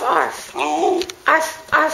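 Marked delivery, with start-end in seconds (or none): 1.3-1.9 playful "arf, arf", pitched up; mock dog bark. Owner showing the dog what to do, mock bark. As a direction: bark it as a cue. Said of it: "You do it".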